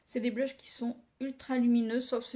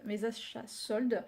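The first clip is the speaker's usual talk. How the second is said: careful slow. Real, not acted. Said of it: "Vous voyez, j'y arrive".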